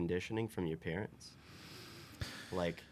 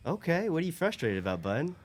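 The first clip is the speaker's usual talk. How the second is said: gentle dad voice; 10 semitones higher, 4 dB louder than usual. Retold or imitated. Dad asking his frustrated son in the car, gentle high parent voice. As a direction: coax a toddler kindly in a high, louder voice.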